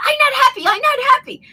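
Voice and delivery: very high, whining mock Japanese accent. Japanese passenger protesting to the pilot, very high Japanese accent. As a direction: squeal the complaint in a Japanese accent. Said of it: "the heavy Japanese accent".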